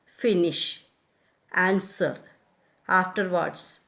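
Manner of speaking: finish, answer, afterwards, each stressed at the front; first-syllable stress. Shown as a demonstration. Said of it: "the first syllable in such words as".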